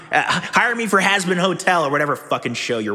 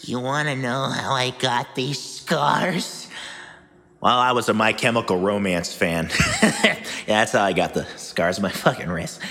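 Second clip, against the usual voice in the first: Joker impression; 6 semitones lower than usual. Joker scars line impression.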